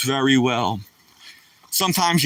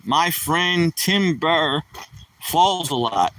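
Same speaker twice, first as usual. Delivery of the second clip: slow joke setup; slower than usual. Shown as a demonstration. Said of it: "Oh, here comes a joke".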